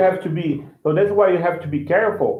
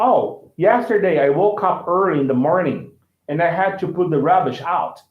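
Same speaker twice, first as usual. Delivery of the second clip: American-style example. Shown as a demonstration. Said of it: "For example".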